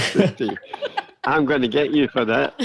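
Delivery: giggling while delivering the threat; can't keep a straight face, laughing on the words; mock threat broken up by laughter; laughing through it. Retelling a prank line, laughing.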